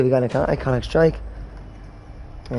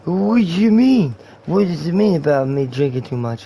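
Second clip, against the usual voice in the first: put-on indignant drunk slur, pitched up at the start; shit-faced guy; 2 semitones higher than usual. Drunk guy questioned about drinking, indignant slur. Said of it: "does not speak like a shit-faced guy".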